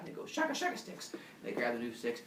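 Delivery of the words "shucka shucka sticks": 1 squeaky whisper. Acted. Villagers answer in squeaky voice.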